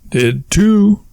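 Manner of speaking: high-pitched insistent comeback; childish contradiction. Acted. Childish back-and-forth argument.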